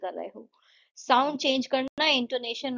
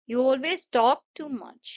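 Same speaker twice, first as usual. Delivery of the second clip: very slow, word by word, falling on "much"; slow, deliberate declarative with a falling end; falling intonation; 3 semitones higher, 3 dB louder, much slower than usual. Shown as a demonstration. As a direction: model it slowly and let "much" drop. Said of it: "sentences with falling intonation".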